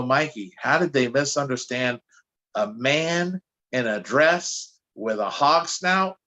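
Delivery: half-laughing doubt, the pitch jumping up on "Are you kidding me"; incredulous disbelief. Retold or imitated. Talking to his friend Mikey about the fans, in amused disbelief.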